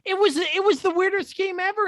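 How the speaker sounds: high laughing exclaim. Real, not acted. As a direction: laugh through the line. Laughing about weird game.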